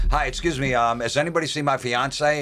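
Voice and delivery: a lightly voiced stranger looking for his fiance; disguised guy. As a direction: play the clueless fiance in a fake mustache.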